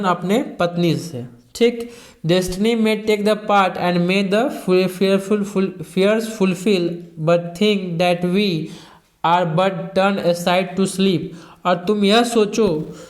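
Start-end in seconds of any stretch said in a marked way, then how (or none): 2.3-11.2 slow, measured recital of verse; slow classroom poetry reading; poem reading. Acted. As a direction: read the verse slowly, line by line. Teacher reads poem lines aloud.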